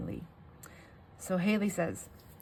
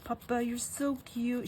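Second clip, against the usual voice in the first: put-on higher, slow little-child cooing; toddler; 6 semitones higher than usual. Toddler telling papa she loves him, imitated high child voice. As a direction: coo it like a doting small child. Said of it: "She just kept saying that".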